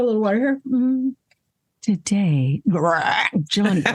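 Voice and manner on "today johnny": laughing through the line. Shown as a demonstration. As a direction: read breaking into a laugh. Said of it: "let's try that again".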